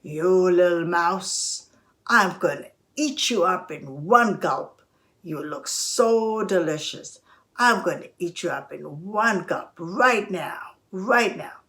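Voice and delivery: lightly voiced lion, drawing out words; menacing lion. Lion about to eat the little mouse, lightly menacing. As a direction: savour the threat like a hungry lion.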